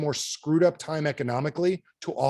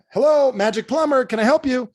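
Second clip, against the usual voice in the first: high, loud sing-song receptionist greeting; cheery phone greeting; 10 semitones higher, 7 dB louder than usual. Retold or imitated. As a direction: answer the phone like an eager receptionist. Plumber answering the phone.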